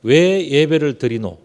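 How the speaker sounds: slow, lightly Gyeongsang dialect question. Shown as a demonstration. Preacher to congregation, slow light Gyeongsang dialect. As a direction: ask it slowly the Gyeongsang way. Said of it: "경상도 말로 표현드린다면".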